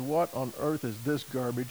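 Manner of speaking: usual speaking voice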